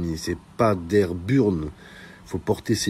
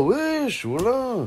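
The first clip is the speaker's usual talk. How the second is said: much higher, startled shout of disbelief; shocked wesh; much slower than usual. Pretend. Hearing her brothers are in prison, shocked yelp.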